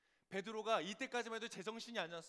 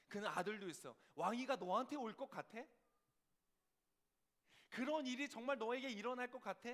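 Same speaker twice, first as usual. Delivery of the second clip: raised, forceful mocking challenge; taunting doubt; 5 semitones higher, 6 dB louder than usual. Doubt challenges fugitive David about God's promise, taunting. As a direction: press each question like an accuser.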